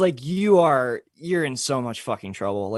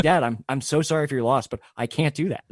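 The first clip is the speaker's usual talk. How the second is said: laughing apology. Retold or imitated. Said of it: "I was like".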